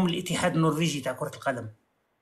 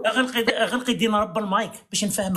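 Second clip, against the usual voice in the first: laughing order; 3 semitones higher than usual. Real, not acted. Laughing while ordering mic off.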